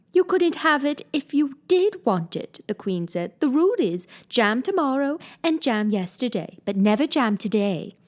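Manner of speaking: put-on high, fussy old queen; a lightly voiced queen laying down the rule; White Queen. Queen explains the jam rule, lightly voiced fussy queen.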